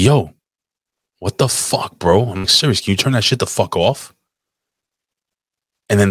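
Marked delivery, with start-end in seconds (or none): 0.0-2.5 retold indignation, pitched up; angry retelling. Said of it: "angry, you know what I'm saying?". 2.5-4.1 indignant retold demand; irritated, with a touch of mock confrontation; angry retelling. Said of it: "angry, you know what I'm saying?".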